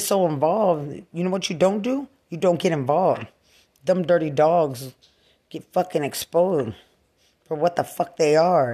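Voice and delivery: loud, punching each insult; furious loud rant; angry. Real, not acted. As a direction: spit it out in fury.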